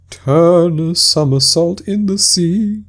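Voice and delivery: high, loud, slow cry of glee; capering wildly while calling out; excited cry. Acted. Mock Turtle crying out while capering about. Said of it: "cried the Mock Turtle".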